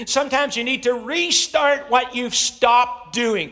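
high, loud preaching climax; fired-up preacher pounding each point; full-force preaching. Acted. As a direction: drive every line home like a rally cry.

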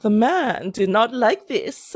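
put-on slow, old-fashioned storyteller voice; old-timey voice. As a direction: drawl it like an old film narrator. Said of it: "very old-timey voice".

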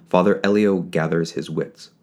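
usual speaking voice

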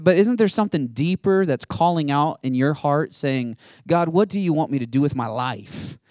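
earnest preacher searching for purpose; impassioned preaching. Acted. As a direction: press each question on the listeners. Preaching at full force.

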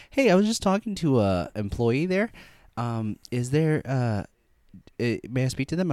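lightly voiced hesitant phone caller. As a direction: ask politely for an employee. Acts out a caller to the gym.

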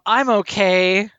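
slow, drawn-out creepy monster; imitating a creepy monster, dragging each word. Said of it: "creepy monster voice when he says that also".

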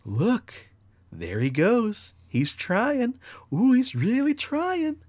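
high, drawn-out jeering voice; mocking dream voice. Voices jeering as he tries to move, high mocking glee. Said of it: "I heard the voice, and it says".

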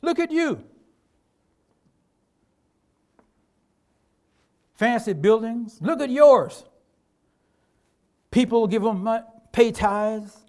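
a preacher voicing the devil's sneer; mocking devil voice. Pastor voicing the devil mocking his small church, mocking. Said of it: "He says".

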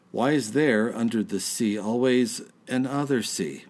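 slurred poem reading. Real, not acted. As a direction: read the poem tipsy and slurring. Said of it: "belch and slur your way through".

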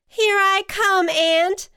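high, loud rescue call; yelling. A narrator's reading. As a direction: yell to a falling friend. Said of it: "she yelled".

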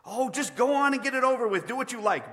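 high, loud exasperated bellow; bellowing ghost. A narrator's reading. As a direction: bellow it in despairing surrender. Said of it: "bellowed the ghost".

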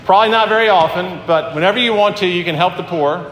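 lightly tongue-in-cheek, as if winking; cheeky. Retold or imitated. Preacher voicing Jesus teasing the disciples, mildly cheeky. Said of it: "He's being a little bit cheeky there".

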